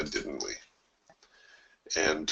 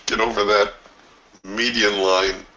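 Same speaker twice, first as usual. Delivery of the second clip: yelling at a horse race. Real, not acted. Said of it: "Feel like I'm at a horse race".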